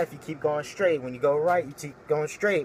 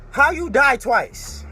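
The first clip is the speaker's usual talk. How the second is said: incredulous; 7 semitones higher, 6 dB louder, slower than usual. Real, not acted. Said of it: "disbelief repeated".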